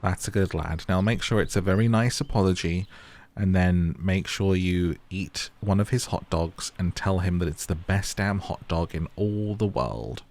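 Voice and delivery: ordinary talk, nothing marked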